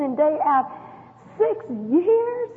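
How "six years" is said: Six pitched much higher in a pained question; a stunned, aching Six years; anguished disbelief. Real, not acted. Anguished disbelief at mother's coma.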